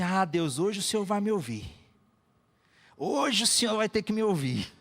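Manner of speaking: worked-up demand to God, lightly acted; mock complaining. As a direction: retell a grumbler having it out with God. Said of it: "doido pra chegar em casa e reclamar".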